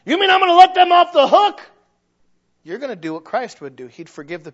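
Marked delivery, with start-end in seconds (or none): 0.1-1.6 loud, high, incredulous protest; indignant objection. Acted. Preacher voicing a listener balking at forgiving. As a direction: play the listener who can't believe it.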